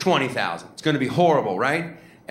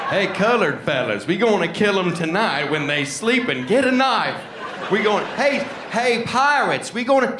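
hillbilly whisper-rally; 7 semitones higher than usual. Retold or imitated. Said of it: "hillbilly dude".

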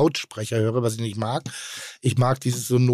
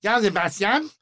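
Navi-Stimme nachgemacht; 6 semitones higher than usual. Retold or imitated. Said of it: "als irgendwie".

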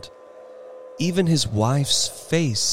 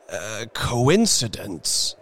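slow, hesitant stammer; slower than usual. Acted. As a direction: stumble over the word. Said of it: "stammered the old man".

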